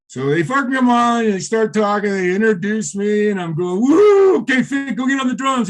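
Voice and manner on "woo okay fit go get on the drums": high-pitched whoop into a call; retold excited call. Guitarist just introduced on stage calls his drummer, excited. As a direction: whoop loudly, then call out high to a bandmate.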